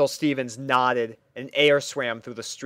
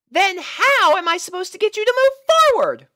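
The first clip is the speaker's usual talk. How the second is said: very high, loud and bright-eyed; a chirpy girl pony puzzled by her steed; squeaky cheerful pony; pony princess voice; 6 dB louder than usual. Acted. Purple pony character voice.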